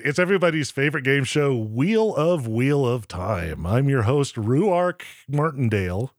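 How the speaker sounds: game show host. Acted. Host announces show again.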